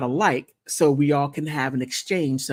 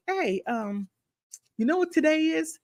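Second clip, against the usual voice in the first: friend's voice; 13 semitones higher, 4 dB quieter than usual. Retold or imitated. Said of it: "she's like".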